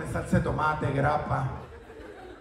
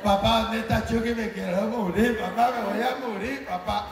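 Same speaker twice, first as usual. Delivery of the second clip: put-on whiny child. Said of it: "Chucky y la princesa se emborracharon".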